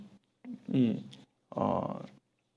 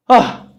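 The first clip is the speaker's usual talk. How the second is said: sudden loud sigh of lament; lamenting groan; 6 semitones higher, 10 dB louder than usual. Acted. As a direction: let out a burst of despair. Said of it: "탄식이 나는 거예요". (터져 나오는 탄식)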